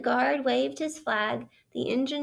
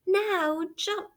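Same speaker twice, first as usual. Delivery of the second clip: higher, urgent call; 7 semitones higher than usual. Acted. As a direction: call the order across the noisy train. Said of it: "heard the driver call out".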